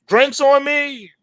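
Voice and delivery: high, slow, grand toast; buy the whole bar a round; cheering a big win, slow and high; celebrating. Pretend. Imagined winner celebrating.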